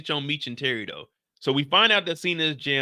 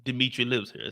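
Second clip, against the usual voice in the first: a barely British UK accent attempt; half-hearted UK accent, mostly own voice; failed UK accent; 4 semitones lower than usual. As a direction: try a British accent and miss it. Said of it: "I can't do a U K accent".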